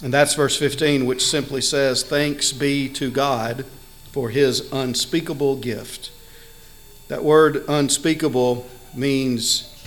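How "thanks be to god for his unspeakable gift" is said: scripture reading. Acted. Reads the scripture verse.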